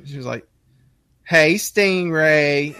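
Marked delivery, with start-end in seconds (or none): 1.2-2.8 very drawn-out greeting; lightly imitated wife calling hello; wife's greeting. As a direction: stretch it out slowly like a flirty wife.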